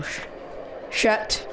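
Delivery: breathless, hushed "shit"; scared whispered swear; whispered curse. Real, not acted. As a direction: curse under your breath so nothing hears. Frightened curse while hiding.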